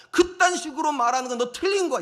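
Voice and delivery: loud, high accusatory scolding; mock an indignant fault-finder; retold rebuke.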